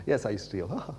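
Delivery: mock nervous giggle round the words; imitated nervous laugh. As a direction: imitate an embarrassed admission with nervous, quiet laughter. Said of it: "laughed in a really nervous way".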